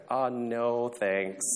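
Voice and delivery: softly drawn-out polite no; lightly acted hesitant turn-down; reluctant refusal. Human offered a monkey as counterpart, mildly reluctant. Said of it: "the guy's like".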